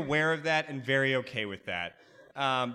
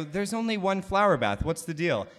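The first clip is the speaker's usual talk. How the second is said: alarmed question; 5 semitones higher, 4 dB louder than usual. Retold or imitated. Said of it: "I go".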